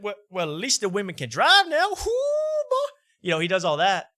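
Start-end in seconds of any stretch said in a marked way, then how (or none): 0.0-1.9 high, loud brash bro shout; New York bro speak. Retold or imitated. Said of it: "he goes into his New York speak". 1.9-2.9 laughing. Real, not acted. Laughing after the impression.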